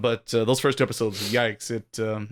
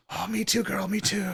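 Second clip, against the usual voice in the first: mocking girly voice; 7 semitones higher, 4 dB quieter than usual. Mocking reply to a friend.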